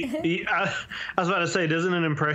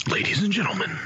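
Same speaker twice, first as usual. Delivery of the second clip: grand showman announcement; Daniel Plainview; 3 semitones higher, faster than usual. Acted. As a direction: boom it like an oilman. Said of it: "I'm just gonna be Daniel Plainview".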